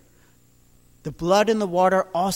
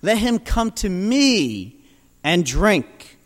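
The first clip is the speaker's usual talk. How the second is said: proclaiming; 2 semitones higher, 6 dB louder than usual. Retold or imitated. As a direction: announce it to the whole crowd. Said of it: "and proclaimed".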